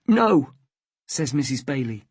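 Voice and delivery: high, loud, distressed protest; a tearful mother clinging to her son; upset protest. Acted. Mother refuses, having started crying.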